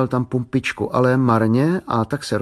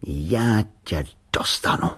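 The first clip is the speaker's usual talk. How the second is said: dangerous voice; slower than usual. A narrator's reading. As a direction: menace the can like a sworn enemy. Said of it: "řekl nebezpečným hlasem".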